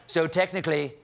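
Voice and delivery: lightly mimicked president telling humble origins; Donald Trump. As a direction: explain it in a mock presidential voice. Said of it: "Trump took a moment with the Times".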